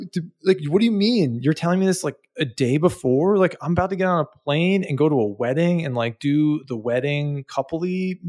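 mock-rant it back at her; retold anger. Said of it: "but I was very angry".

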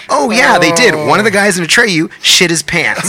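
high, eager mock announcement; gleeful tattling. Interviewed band tells on him on television, high gleeful tattling.

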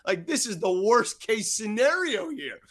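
fretting to himself, lightly hammed-up; mock panic. Reporter facing a dreaded interview, mock panic.

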